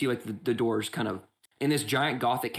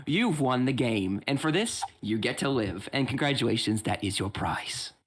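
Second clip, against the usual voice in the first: slow host verdict; slower than usual. Acted. GM voices host's farewell.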